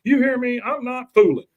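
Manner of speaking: high, insistent warning; yelling threat. Acted. Husband threatening the doctor, high-pitched yell. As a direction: call it forcefully through the door. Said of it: "while he's yelling and banging on the door".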